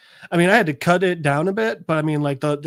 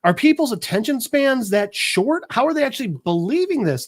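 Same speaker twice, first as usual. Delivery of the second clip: mild mock yell, pitched up; raised, exasperated imitation of a heckler; retold yelling; 7 semitones higher than usual. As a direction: retell an incredulous outburst at higher pitch. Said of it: "someone's yelling".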